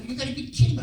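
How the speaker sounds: high-pitched indignant protest, retold; acted exasperated disbelief. Actor objecting to wearing a mask, retold exasperation. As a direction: replay your disbelief, voice shooting up. Retelling protest, says getting pissed off.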